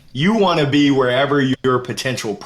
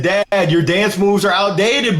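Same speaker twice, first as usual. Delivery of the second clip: imitating his son; 3 semitones higher, slower than usual. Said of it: "He said".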